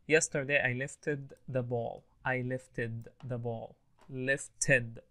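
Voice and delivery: slow, with "lifted" said in two syllables; teacher carefully modelling "lifted" as lift-ed; ED as extra syllable. Shown as a demonstration. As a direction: sound out the ED in "lifted" as its own syllable. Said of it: "it's pronounced E D".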